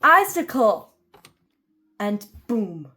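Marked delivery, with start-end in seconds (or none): 0.0-0.9 high, loud alarmed scream of a name. Acted. A dragon at breakfast screaming in alarm, loud scream. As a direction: yell it in sudden alarm. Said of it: "someone screamed".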